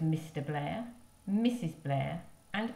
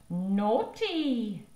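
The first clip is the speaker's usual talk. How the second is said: put-on high, louder toddler scolding; baby voice; 4 semitones higher, 5 dB louder than usual. Baby telling off the mess-maker, high toddler voice. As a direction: tut like a little child.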